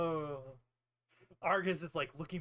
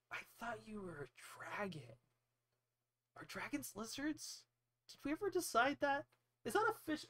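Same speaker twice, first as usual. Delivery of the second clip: lightly voiced nerdy wizard, higher pitch; a hint of fussy nerd, pitched up; 6 semitones higher, 3 dB quieter than usual. Wizard puzzling over whether dragons are lizards, lightly nerdy. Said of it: "being totally a nerd".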